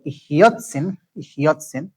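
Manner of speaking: "Hiyotzin" with the accent on YOT; slow teacher's model of "Hiyotzin", leaning on YOT; next-to-last syllable stress. Shown as a demonstration. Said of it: "on the next to the last syllable".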